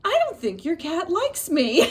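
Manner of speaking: high, giggly retelling of the guest; can barely keep a straight face; quoting through laughter. Retold or imitated. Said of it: "And the woman said".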